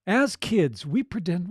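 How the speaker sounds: natural, engaged storytelling; unforced read with feeling behind it; energized narration. Shown as a demonstration. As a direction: read it like sharing your own story. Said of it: "read this now with that in mind".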